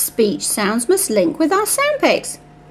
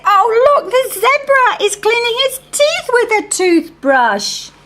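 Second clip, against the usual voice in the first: model sentence; 6 semitones higher than usual. Shown as a demonstration. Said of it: "we can look at the picture and say".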